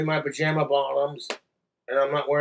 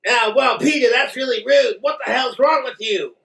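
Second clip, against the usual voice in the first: slightly high, indignant cartoon voice; lightly voiced hurt cartoon pal; offended cartoon neighbour; 5 semitones higher than usual. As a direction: protest as a mildly offended neighbour. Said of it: "Hey, Peter".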